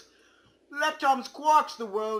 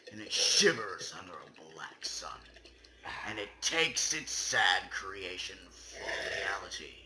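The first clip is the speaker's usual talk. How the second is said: hushed, secretive whisper; spooky whisper; 6 dB quieter than usual. Acted. Reading the game's ending poem aloud, in a whisper. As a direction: breathe it like a secret.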